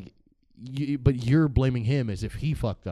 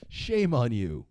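hammed-up reproach, said straight through; mock scolding; slower than usual. Comedian chides disloyal ex-presidents, mock scolding. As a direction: scold them in one falling sweep.

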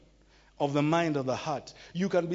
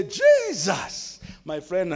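calling on Jesus; 4 dB louder, much slower than usual. Shown as a demonstration. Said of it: "just say".

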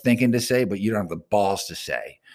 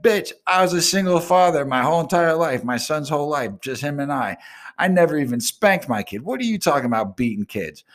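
higher-pitched incensed protest against the charge; outraged defense; 7 semitones higher than usual. Retold or imitated. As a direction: defend your honour, fuming. Acted quarrel, defending himself.

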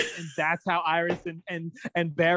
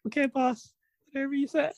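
mock sarcastic; 10 semitones higher than usual. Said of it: "Allegra's like".

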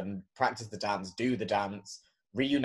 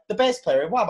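mocking the queen; 10 semitones higher, 8 dB louder than usual. Imitating the queen's words.

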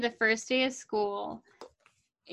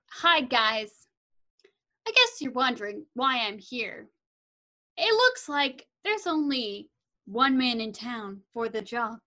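dramatic slow talker. Retold or imitated. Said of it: "It's, like, so dramatic how he talks".

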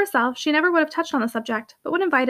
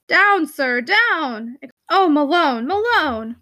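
narrated calling out, falling on each cry; alarmed cries; 2 semitones higher, much slower than usual. A narrator's reading. Visitors cry out at an attacking dog, alarmed calls. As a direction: call out in mild alarm.

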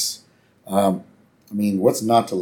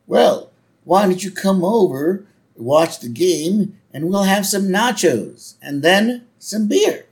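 slow, higher-pitched friendly neighbor impression; drawn-out chummy question, pitched up; Gerald Ford; 9 semitones higher, 3 dB louder, slower than usual. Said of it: "And, uh, Jerry goes".

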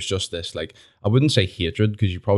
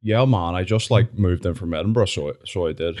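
mock Edinburgh accent. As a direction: lightly mimic the wee guy from Edinburgh. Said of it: "Can you start me off again?".

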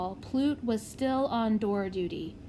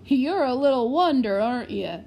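excited; 3 semitones higher, 8 dB louder than usual. A narrator's reading. Freddie praises the prodigy.

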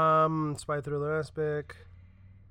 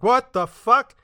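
higher, louder startled outburst; startled shout; 8 semitones higher, 11 dB louder, much slower than usual. Retold or imitated. Nedry hit by the spit, startled higher shout. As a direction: yell it in shock. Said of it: "he's like".

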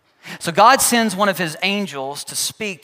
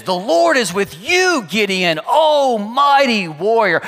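grand angel proclamation; 3 semitones higher, slower than usual. Acted. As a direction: hail him like a mighty angel, each word drawn out. Mighty angel appears before Gideon.

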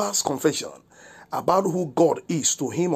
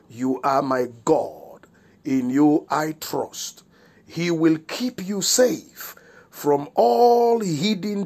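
measured, deliberate Bible reading; scripture reading. Real, not acted. Pastor reading the psalm to listeners, solemn and deliberate. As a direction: read it out slowly with drawn-out key words.

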